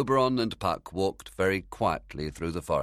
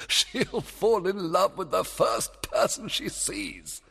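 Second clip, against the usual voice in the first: gleeful singsong; 14 semitones higher, 3 dB louder, slower than usual. Acted. Plotting, laugh and singsong.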